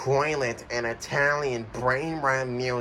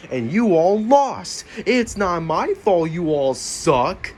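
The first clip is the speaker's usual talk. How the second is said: gloating taunt; 4 semitones higher, 5 dB louder, slower than usual. Acted. Host gloating at losers.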